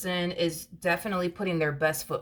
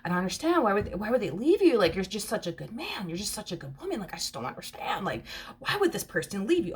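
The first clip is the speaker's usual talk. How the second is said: baffled partner; 2 semitones higher than usual. Retold or imitated. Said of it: "this feminine energy is so confused".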